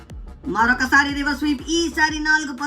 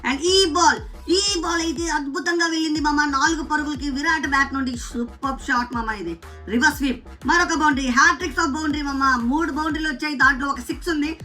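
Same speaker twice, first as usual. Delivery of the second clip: excited cricket commentary; 3 semitones higher than usual. Acted. Hyped play-by-play commentary.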